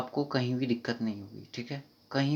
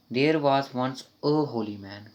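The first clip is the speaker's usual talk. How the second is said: slow read-through; 3 dB louder, much slower than usual. Shown as a demonstration. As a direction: try the answer out slowly. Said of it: "तो क्या आएगा?".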